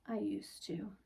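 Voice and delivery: softly whispered grief; hushed sad reply. Acted. Grieving man answering Laurel at his door, whispered sadness. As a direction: breathe it out sadly.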